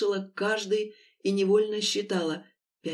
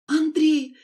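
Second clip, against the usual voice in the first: higher, louder alarmed cry; sudden realization; 6 semitones higher, 7 dB louder than usual. A narrator's reading. Lera suddenly remembering her fiancé, alarmed. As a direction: snap out the name in alarm. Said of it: "спохватилась Лера".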